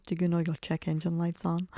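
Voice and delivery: a faint, badly faked American accent as Sheldon. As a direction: lightly put on an American accent, barely there. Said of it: "that was the worst American accent ever".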